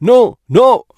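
high, startled no no; frightened no. Retold or imitated. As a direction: recoil from the calendar in a mild fright. શા માટે આટલા ડરો છો. (ડરથી ઊંચા અવાજે ના ના)

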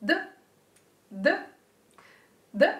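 d, d, d said crisply with tongue behind teeth; short tapped d, d, d; d sound demo. Shown as a demonstration. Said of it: "when you say the word do".

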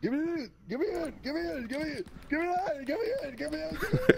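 loud, insistent repeated demand. Acted.

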